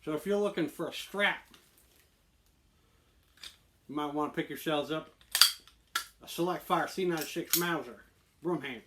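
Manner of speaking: put-on swaggering presenter delivery; on-camera persona pitch. Host pitching holsters to viewers, in persona. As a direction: deliver it like a scripted gun pitch.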